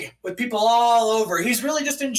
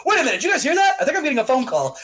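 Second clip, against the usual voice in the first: high, sudden fake interruption; raised-pitch stalling; nervous excuse; 4 semitones higher, much faster than usual. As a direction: make an obvious excuse to get away. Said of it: "And then he, like, goes".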